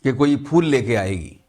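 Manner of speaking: measured mushaira verse delivery with pauses; ghazal recitation. Acted. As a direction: recite the couplet to an audience, phrase by phrase. (शायराना अंदाज़ में ग़ज़ल पढ़ना)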